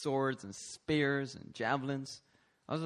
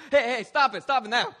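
loud, high-pitched command to stop; hammed-up yell to break it off; mock alarmed shout; 9 semitones higher, 11 dB louder than usual. Acts out shouting in battle.

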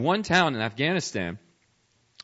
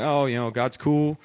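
mock casual, slow and offhand; lackadaisical; 3 dB louder than usual. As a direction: shrug it off as a half-hearted believer. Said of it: "walk with God lackadaisically".

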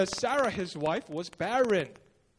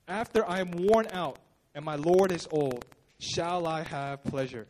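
grieving woman; 5 semitones lower than usual. Retold or imitated. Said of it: "do you hear the grief in her voice".

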